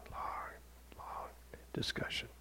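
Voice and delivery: trailing off into a whisper; fading to a whisper. A narrator's reading. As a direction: let the words fade away. Drawn-out long discussion.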